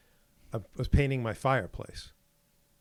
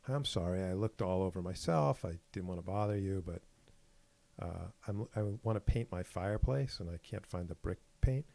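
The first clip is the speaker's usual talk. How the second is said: agreeable nice tone; 2 semitones lower, 3 dB quieter than usual. Retold or imitated. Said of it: "very agreeable, very nice tone".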